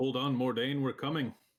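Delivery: loud high-pitched shout. A player's character rushes toward a person yelling for help, yelling out. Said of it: "I'll yell out".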